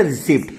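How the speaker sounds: mistaken reading रिसिप्ट, P sounded; P pronounced. Shown as a demonstration. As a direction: say रिसिप्ट with a p before the final t. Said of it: "पी silent होता है, रिसिप्ट नहीं पढ़ते".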